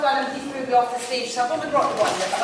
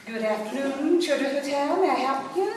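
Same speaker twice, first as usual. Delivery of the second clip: put-on posh receptionist greeting; posh phone voice; 4 semitones higher than usual. Receptionist answering the hotel phone, rather posh. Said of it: "I decided I'd be rather posh".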